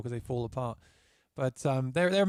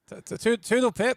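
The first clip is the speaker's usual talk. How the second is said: posh British; 7 semitones higher, 4 dB louder than usual. Pretend. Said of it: "start talking like a Brit again".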